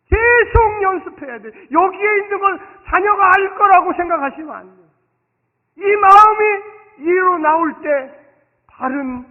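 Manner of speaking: loud, slow, pounding sermon delivery; full-force preaching. Acted. Pastor urging the congregation, preaching at full force. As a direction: drive every phrase home from the pulpit.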